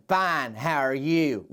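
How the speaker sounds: slow, dragging "Fine" hiding worry; uneasy reply. Shown as a demonstration. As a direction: say fine but let trouble leak through. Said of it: "something else going on there".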